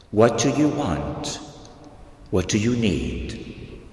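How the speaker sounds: gentle regal voice. Retold or imitated. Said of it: "beautiful, gentle, regal voice".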